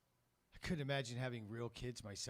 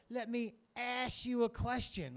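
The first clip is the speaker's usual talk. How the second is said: mock sly line; 9 semitones higher, 4 dB louder, slower than usual. Shown as a demonstration. Uncle demoing the joke line.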